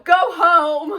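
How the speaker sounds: a retold cop's loud go home; cop shout. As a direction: yell it from a cop car window. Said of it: "this one cop shouted out the window".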